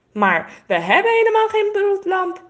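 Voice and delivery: high, loud despairing cry; distressed cry. A narrator's reading. Girl cries out to her father that they have no lamp, high and distressed. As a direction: call out in dismay. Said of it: "roept Renske".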